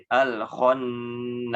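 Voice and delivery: khonnas with heavy, thick kh; slow khonnas, full thick kho. Shown as a demonstration. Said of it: "kho-nya tebal ya".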